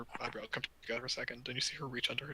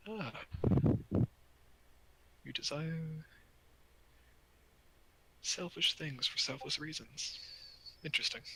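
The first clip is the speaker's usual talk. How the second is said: voice in the mind; 4 semitones higher than usual. Acted. Creature speaks into your mind.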